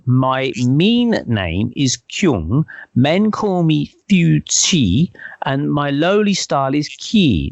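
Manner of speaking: measured pace, carefully sounding out the foreign names; slow recital of an introduction; slow, deliberate quote. Retold or imitated. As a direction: quote it slowly, word by word. Quoting the séance voice's formal introduction.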